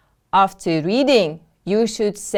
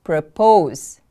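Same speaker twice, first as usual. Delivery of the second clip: "Propose" with POSE stressed and falling; careful teacher's "Propose", weight on the second syllable; 2 semitones lower than usual. Shown as a demonstration. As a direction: model "Propose" as pro-POSE. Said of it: "The stress is on the second syllable".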